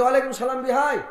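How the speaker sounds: loud, high answering greeting; in-law answering across the field, loud and high; calling back. Acted. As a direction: shout the reply back warmly.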